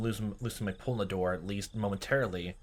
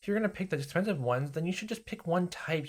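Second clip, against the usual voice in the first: mom scolding; 8 semitones higher than usual. Retold or imitated. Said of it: "your mom got angry".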